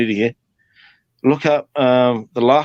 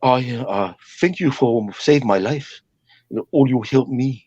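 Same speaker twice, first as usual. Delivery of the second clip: put-on Samoan accent. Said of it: "they sound like this".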